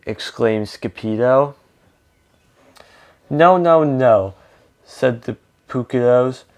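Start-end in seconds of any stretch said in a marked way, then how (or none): 3.3-4.3 higher, louder start, falling away; lightly acted insistent objection; emphatic correction. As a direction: correct him firmly, in storybook fashion. Dogs correct the kitten's mistake.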